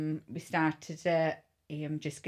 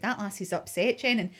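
retold indignation; 6 semitones higher, 5 dB louder than usual. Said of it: "I said".

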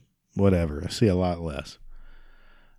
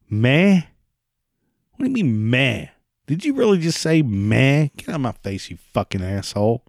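mock outrage; 3 semitones higher than usual. Ranting at imagined meh-sayer.

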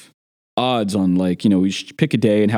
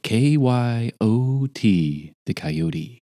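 radio announcer; 2 semitones higher, much slower than usual. Retold or imitated. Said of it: "the announcement was".

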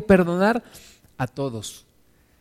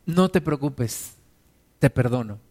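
sincere, tender pardon; gentle forgiveness; 4 semitones lower, 3 dB quieter than usual. Pretend. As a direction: let them off kindly, no strings attached. Sincere forgiveness contrasted with grudging.

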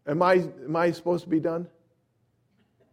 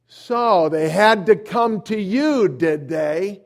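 loud, drawn-out accusing demand; agitated stranger sizing you up; confrontational challenge; 4 semitones higher, 8 dB louder, slower than usual. Retold or imitated. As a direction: get in his face, louder and higher. Agitated man confronting the preacher.

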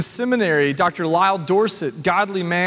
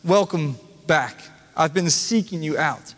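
tender welcome; 4 semitones lower than usual. Retold or imitated. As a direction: welcome the lost one home gently. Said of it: "just like he said to my seminary professor".

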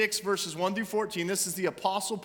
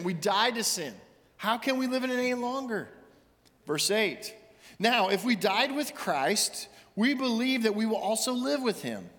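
raised, earnest reading of scripture; scripture reading in sermon; 3 semitones higher than usual. Acted. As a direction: read the passage to the congregation with conviction. Reads scripture in raised preaching voice.

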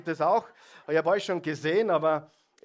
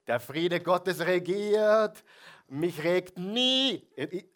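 mock smug piety; 3 semitones higher, much slower than usual. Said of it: "Wer hat immer nur friedliche Gedanken".

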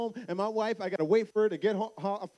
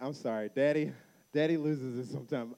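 lower-pitched, subdued apology; apologetic dad; 6 semitones lower than usual. Retold or imitated. Dad apologizes to crying daughter, retold gentle remorse. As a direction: act out gently making up with a child.

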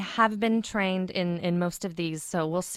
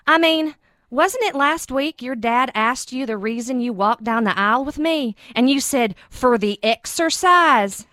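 lightly voiced Southern accent, playful; a hint of a Southern accent.

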